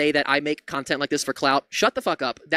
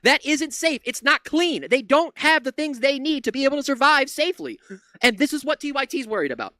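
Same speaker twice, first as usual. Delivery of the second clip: fast, heated, swearing rant; angry rant; 5 semitones higher than usual. Real, not acted. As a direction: let it all boil over. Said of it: "this is just totally me ranting right now".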